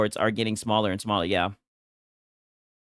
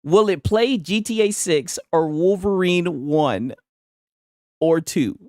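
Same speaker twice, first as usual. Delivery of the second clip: slow, higher put-on English accent; attempted English accent; 4 semitones higher, slower than usual. Streamer repeating his boy's GTA question, exaggerated English accent. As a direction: draw out a mock South England accent. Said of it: "I don't know what type of accent it is".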